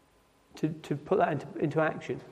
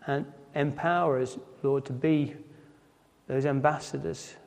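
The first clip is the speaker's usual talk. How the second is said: hushed, humble prayer voice; closing prayer. Acted. Preacher closing the service in prayer to God, hushed.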